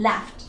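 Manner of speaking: "laughed" with a T at the end; final T sound. Shown as a demonstration. Teacher showing the sound at the end, final T sound. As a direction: close "laughed" on F and T. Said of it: "at the end".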